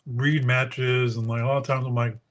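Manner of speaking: talking while chewing ice; ice in mouth. Real, not acted. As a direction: speak around a mouthful of ice. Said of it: "sorry, chewing on ice here".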